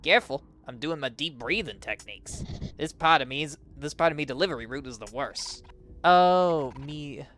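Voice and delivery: lightly put-on Cockney postman; rough Cockney attempt. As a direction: try a loose, shaky-at-best Cockney accent. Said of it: "He's like Cockney or something".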